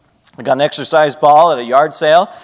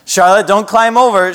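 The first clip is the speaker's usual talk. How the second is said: put-on talking to a toddler; 4 semitones higher than usual. Shown as a demonstration. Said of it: "Gotta talk to her like that".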